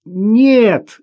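put-on high, loud child's answer; girl's voice. A narrator's reading. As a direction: call back as a small girl. Girl calls from ice hole. (высокий детский голос)

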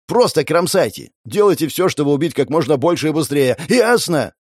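high, urgent commands; yelled orders. Acted. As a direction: order them into battle, pitch jumping at the end. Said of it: "заорал я".

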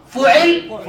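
فعل as fu'il, u then i; damma then kasra. Shown as a demonstration. Teacher continues the pattern list, damma then kasra. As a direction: say فعل with u on f, i after ayn. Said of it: "نضم الفاء".

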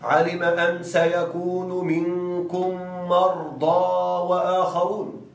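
slow chanted recitation; Quran recitation. Acted. Teacher reciting a verse to illustrate for students, slowly chanted.

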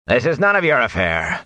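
a hint of belligerence; belligerent. Watchman defying the Whitecloaks, mildly belligerent. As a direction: push back at the Whitecloaks. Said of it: "said belligerently".

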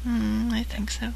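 slow unsure whisper. Real, not acted. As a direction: whisper it back doubtfully. Whisper bit continues.

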